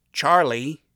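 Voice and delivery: calling out. Acted. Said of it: "Alistair suddenly called out".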